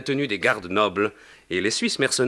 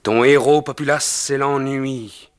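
addressing the crowd; 3 dB louder than usual. Acted. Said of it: "Le poète poursuivit".

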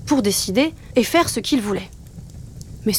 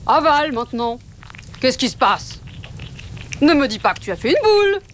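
cry out; 4 semitones higher than usual. A narrator's reading. Father wolf crying out as his son chokes on the meat, alarmed. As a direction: exclaim in growing alarm. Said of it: "s'écria Papa Loup".

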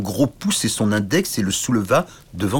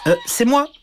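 tiny knight shouting up. Acted. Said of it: "Le petit chevalier cria".

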